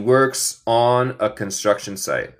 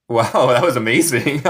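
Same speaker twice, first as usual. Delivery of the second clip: amused amazement; faster than usual. Real, not acted. Reacts to viewers' gift on screen.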